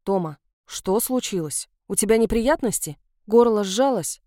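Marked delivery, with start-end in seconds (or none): 0.0-3.0 worried. Acted. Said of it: "встревоженно спросила".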